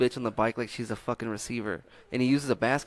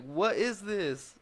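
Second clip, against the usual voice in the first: put-on kid voice; 7 semitones higher, 5 dB quieter, much slower than usual. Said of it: "he was like".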